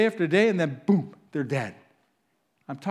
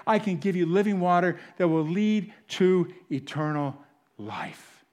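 tender. Acted. Jesus to woman repeated softly.

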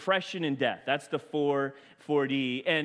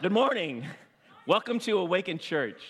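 composed, deliberately spaced greeting; fresh start. Real, not acted. Pastor restarting his welcome to the church, composed. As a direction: start afresh with a measured welcome. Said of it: "we'll start over".

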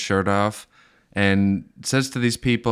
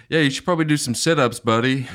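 fast, higher mocking jeer; mocking bystander; 5 semitones higher, faster than usual. Guy filming mocks the ranting man, fast taunt. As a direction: needle the shirtless guy, quick and high. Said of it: "the guy videotaping is going".

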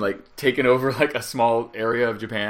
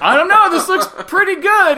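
mock reluctance; 7 dB louder than usual. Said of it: "I'm like".

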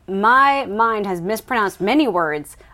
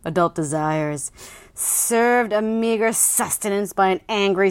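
dramatic blurb reading. Acted. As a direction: read it like a thriller trailer. Reads book blurb dramatically.

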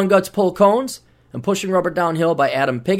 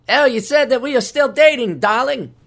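Cary Grant; 7 semitones higher than usual. Retold or imitated. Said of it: "That sounds more like Cary Grant".

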